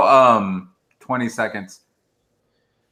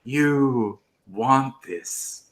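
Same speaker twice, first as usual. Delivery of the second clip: tempting devilish whisper; 6 dB quieter, much slower than usual. Pretend. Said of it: "hold your beer in front of the camera and go".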